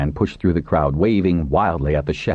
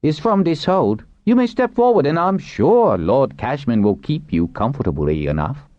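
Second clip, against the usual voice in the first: higher-pitched character voice; official addressing captives; 10 semitones higher than usual. Acted. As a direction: address the prisoners formally in a raised pitch. Narrator voices Pinch addressing captives.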